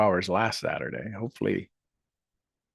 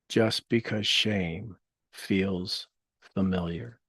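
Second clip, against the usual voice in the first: guided meditation; much slower than usual. Acted. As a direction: gently lead listeners through healing words.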